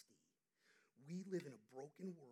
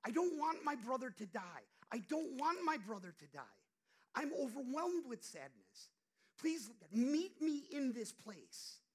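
high, loud, slow desperate plea; a sister praying for her starving brother, loud and pleading; pleading prayer; 7 semitones higher, 12 dB louder than usual. Retold or imitated. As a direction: beg God like a sister afraid her brother will die. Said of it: "This is a sister".

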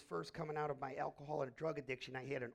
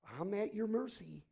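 pleading cry; 6 semitones higher, 8 dB louder than usual. Retold or imitated. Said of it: "willing to say".

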